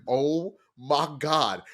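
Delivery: slow, drawn-out amazement; stunned realisation. Retold or imitated. Viewer finally getting the twist, slowly astonished. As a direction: let each word land separately, astonished.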